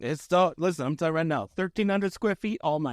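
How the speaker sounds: lightly put-on Italian-American mobster; a hint of mock New York Italian accent; Italian mafia. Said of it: "slip into Italian mafia people all the time".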